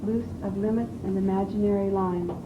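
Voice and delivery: measured, deliberate verse recitation; poetry reading. Shown as a demonstration. Student reading the other poem to coach, measured poetry reading. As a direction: declaim it phrase by phrase, with pauses. Reads second Whitman poem.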